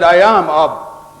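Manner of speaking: slow, deadpan correction; stern. Retold or imitated. Short manager flatly correcting the speaker, slow and stern. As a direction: flatly tell him he is already standing. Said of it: "He looked at me with a stern face".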